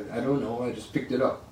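downplay it like it's nothing; playing humble. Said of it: "playing humble".

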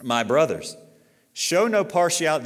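loud, high call to the brothers; emphatic scripture reading. Real, not acted. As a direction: proclaim it with force. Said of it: "say this".

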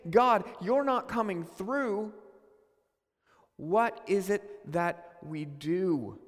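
mild despairing plea. Retold or imitated. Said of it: "in his moment of saying".

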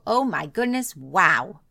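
a prospect overwhelmed with delight, gushing and squealing wow; amazed gushing. Pretend. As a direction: gush like someone blown away by a gift. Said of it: "take all of your free stuff and go".

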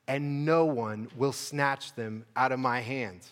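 slow, weighty reading of the verse; slow scripture reading. Shown as a demonstration. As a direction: lay each word down slowly. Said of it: "So Jesus says".

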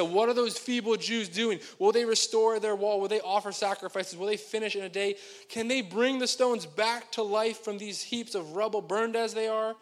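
loud mocking questions, stretched words; scornful public taunting, lightly acted; ridiculing. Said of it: "he ri-, ridicules the Jews".

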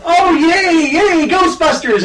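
put-on high, bright kid's yay; little kid cheering for Ghostbusters; childlike cheer. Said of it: "it went from".

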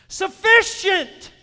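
Sufficient drawn out very slowly, high and loud; stress on Sufficient. Shown as a demonstration. Preacher stressing the first Greek word to the church. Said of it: "the first word that he said there".

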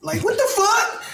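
high, put-on outburst; hammy what-the-fuck voice; mock argument. Acting out a loud argument.

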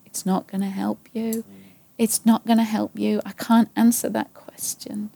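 quiet and gentle, ending almost whispered; soft voice of God. Retold or imitated. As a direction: let it fade to a gentle hush. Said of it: "God is saying".

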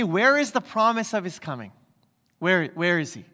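mocking the scoffers' question, lightly; a touch of sneering disbelief; sarcastic. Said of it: "You can hear the sarcasm".

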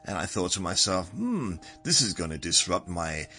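English storytelling accent, lilting up and down; measured, theatrical English accent; put-on English accent. Shown as a demonstration. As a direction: act out a tale in a mock English accent. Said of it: "I'm not talking like this".

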